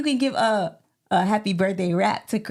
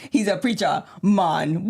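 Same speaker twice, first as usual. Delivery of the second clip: slow mock Jamaican "preacher mon"; imitated Jamaican accent; 4 semitones lower than usual. Co-host quoting the rapper back, mock Jamaican accent. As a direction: mimic the Jamaican accent, stretching it out. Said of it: "And then you just said".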